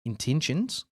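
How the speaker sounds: "Intentions" in a light Australian accent, ending on a rise. Shown as a demonstration. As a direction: say "Intentions" the Aussie way, with an upward lilt. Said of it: "hard not to say that with a fucking Australian accent".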